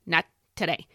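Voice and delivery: lightly voiced hockey coach; a hint of the coach dismissing doubt. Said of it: "hockey coach voice".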